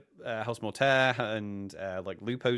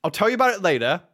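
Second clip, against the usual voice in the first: brushing him off; 6 semitones higher, 8 dB louder than usual. Retold or imitated. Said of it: "And you were like".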